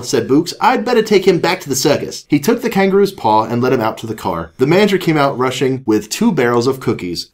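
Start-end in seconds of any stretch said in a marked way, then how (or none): 0.6-2.2 British doctor. Acted. 2.3-7.3 animated read-aloud voice; story narration. A narrator's reading. Reads a children's story aloud.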